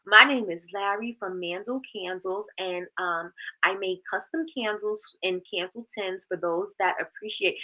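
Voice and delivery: mildly formal business pitch; lightly put-on presenter voice; stuffy self-introduction. Shown as a demonstration. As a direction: recite your introduction a little stiffly. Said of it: "that don't sound like you".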